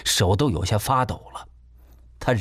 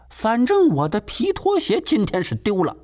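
pointed insistence; 11 semitones higher than usual. Acted. Landlady insists on loss.

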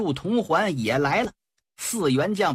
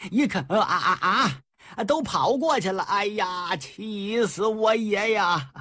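put-on exasperated old man; 3 semitones higher than usual. Old man sees them escape.

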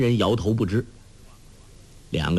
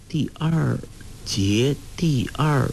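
whispered, slow puzzling; hushed, drawn-out pondering; murmuring to herself; 3 semitones higher, slower than usual. A narrator's reading. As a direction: mutter it slowly while thinking. Huang Rong murmurs, puzzling.

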